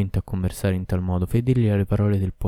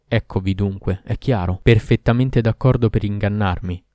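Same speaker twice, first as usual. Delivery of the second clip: roaring Ifrit. Acted. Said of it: "ruggì l'Ifrit".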